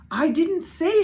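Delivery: high, loud protesting shout. A narrator's reading. Little sister shouting her defense at Carla. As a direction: blurt it out defensively. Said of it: "she shouted".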